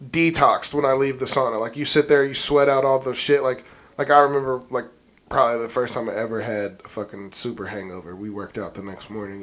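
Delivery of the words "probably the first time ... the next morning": hushed storytelling voice; whispering. Real, not acted. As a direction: drop to a near whisper. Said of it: "Why are you whispering now?".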